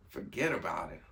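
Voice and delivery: put-on low-pitched, half-hearted New York accent; bad New York accent. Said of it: "That was a bad New York accent".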